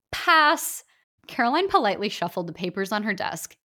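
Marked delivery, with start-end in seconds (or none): 0.1-0.8 short, high, louder brush-off; curt dismissal. Acted. Author dismissing a villain auditioning before her, curt and high. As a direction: cut him off flatly with one word.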